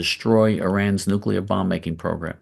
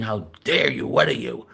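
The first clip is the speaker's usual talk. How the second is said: mock outrage; 2 semitones higher, 3 dB quieter than usual. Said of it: "people were saying".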